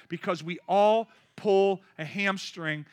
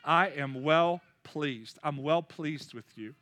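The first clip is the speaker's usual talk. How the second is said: tender affirmation; 4 semitones lower, slower than usual. Acted. God's words slowed.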